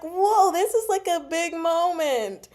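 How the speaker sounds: high, loud and thrilled; mock awestruck gasp; excited. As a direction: gush over the big moment. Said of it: "'Cause I was like".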